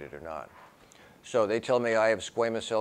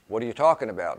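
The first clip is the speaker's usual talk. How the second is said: taken aback; 4 semitones higher, 10 dB louder than usual. Retold or imitated. Doctor's startled retort to refusal.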